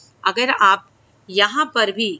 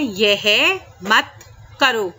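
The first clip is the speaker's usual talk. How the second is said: slow stern demo; much slower than usual. Shown as a demonstration. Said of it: "कि अगर आप कुछ शैतानी कर रहे हैं".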